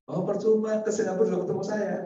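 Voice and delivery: doctor's teasing reply. Retold or imitated. Doctor's amused reply to official.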